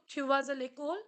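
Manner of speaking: vas stressed, rising to l'école; "Tu vas à l'école?" said as an intonation question; rising question tune. Shown as a demonstration. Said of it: "In intonation".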